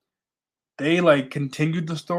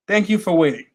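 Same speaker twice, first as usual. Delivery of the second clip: announcer voice; 5 semitones higher, 6 dB louder, faster than usual. Acted. Announcer on stage.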